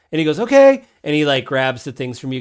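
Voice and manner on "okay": put-on high, loud kid's okay; child kender. Child kender agrees to take the horses, high kid voice. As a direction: pipe up like an obedient child. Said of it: "this is a child Kender".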